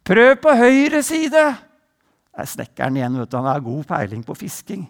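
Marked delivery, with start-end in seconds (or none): 0.0-1.3 calling out. Acted. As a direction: shout the advice across the water. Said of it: "roper han ut en gang til". (Jesus roper til fiskerne i båten, høyt)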